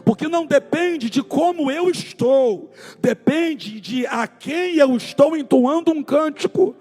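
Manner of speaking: loud, high, fervent preaching; preaching at full force. Acted. Pastor rousing the Thursday congregation, full-force preaching. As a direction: preach it out to the whole church with fire. Fervent worship sermon climax.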